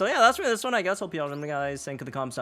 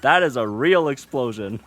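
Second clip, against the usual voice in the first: excited; 6 semitones higher, 10 dB louder than usual. Real, not acted. Hyped about huge damage hit.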